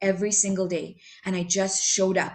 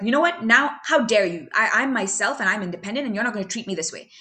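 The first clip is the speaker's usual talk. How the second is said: mock indignant. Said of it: "I'm like".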